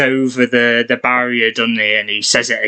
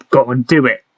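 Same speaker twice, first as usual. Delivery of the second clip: urging. Pretend. Voicing the urge to jump.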